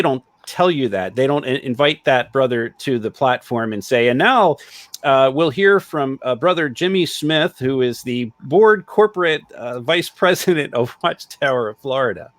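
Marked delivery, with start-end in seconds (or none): 4.1-12.3 announcer voice. Retold or imitated. Mock platform announcement.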